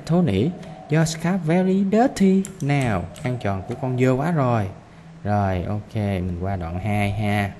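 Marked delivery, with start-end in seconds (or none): 0.1-3.0 dad's voice. Acted. Father's words read to class.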